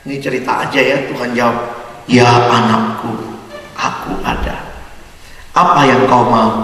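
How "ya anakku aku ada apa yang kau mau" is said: low, slow, calm divine voice; lightly voiced God answering from above. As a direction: speak down slowly as God. God answers the fallen man.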